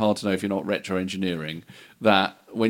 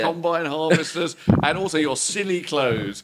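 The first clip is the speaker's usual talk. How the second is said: excited record boss; 4 semitones higher than usual. Pretend.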